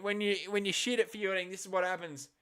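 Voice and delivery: calmer corrected commentator line; commentary retake. Pretend. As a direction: redo the call, steadier this time. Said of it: "I fucked up the commentary".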